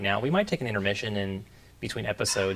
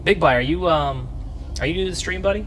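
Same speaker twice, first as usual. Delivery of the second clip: excited; 8 semitones higher, 7 dB louder than usual. Real, not acted. Greets new chat viewer.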